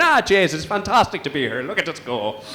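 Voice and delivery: sing-song Northern Irish lilt; mock Irish mum, sing-song; lightly done Northern Irish accent; Northern Irish mum impression. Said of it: "Irish accents are all kind of sing-song".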